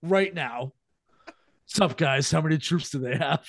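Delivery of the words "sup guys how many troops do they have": lightly voiced Southern California accent; casual Southern California dude, no English accent; a hint of laid-back SoCal accent; Southern California guy. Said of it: "sounds like a guy from Southern California".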